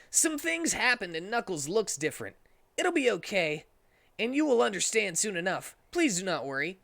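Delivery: calm the worried mother as Sonic; reassuring Sonic voice. Acted.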